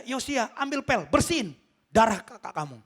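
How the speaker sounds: a hint of a commanding dad; stern father ordering. Father ordering child to mop up, lightly acted command.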